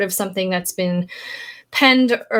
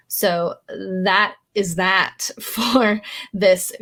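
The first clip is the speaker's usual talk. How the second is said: whisper; much slower than usual. Real, not acted. Laughing aside at her failure.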